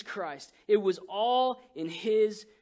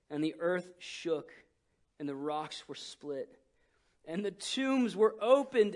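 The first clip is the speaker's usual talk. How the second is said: scripture reading. Acted. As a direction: read the verse with weight.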